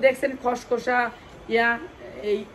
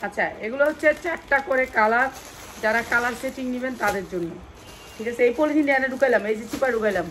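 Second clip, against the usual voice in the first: loud pushy sales pitch; hard sell ad; 2 semitones higher, 5 dB louder than usual. Acted. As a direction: sell it hard to the live viewers. Live sale pitch, loud.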